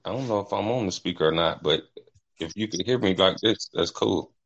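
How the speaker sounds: talking over speakerphone; phone speaker. Real, not acted. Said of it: "can you hear me on speaker".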